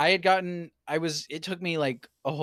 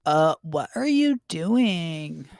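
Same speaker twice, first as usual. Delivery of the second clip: put-on slow, puzzled girl; confused girl voice; 4 semitones higher, 5 dB louder, much slower than usual. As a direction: drag it out, baffled. Co-reader voices confused Cream.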